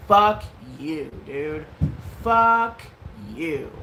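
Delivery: emphatic loud curse on each "fuck"; retold anger. Speaker reacting to the streamer, retold angry dismissal. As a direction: curse them off, punching the first word.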